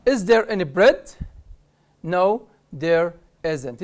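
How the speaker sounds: slow question then drawn-out answer; model dialogue. Shown as a demonstration. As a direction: read both sides slowly. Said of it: "Look at this rule here". (نموذج سؤال وجواب ببطء)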